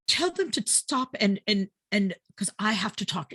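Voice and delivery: imitated Irish husband making demands; mock Irish husband. Husband demanding wife end her call, mock Irish imitation. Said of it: "this is my imitation of my husband".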